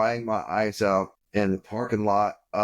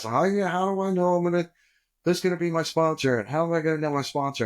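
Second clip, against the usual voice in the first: high-pitched imitation of a fretting newcomer; newcomer's questioning; 7 semitones higher, faster than usual. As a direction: voice it higher, as a mock worried question. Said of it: "I was like everybody else".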